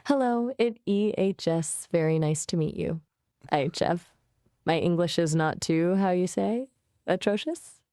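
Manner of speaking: English with a hammed-up French accent; French accent, searching for words. Shown as a demonstration. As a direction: put on a halting French accent. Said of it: "Can you do a French accent".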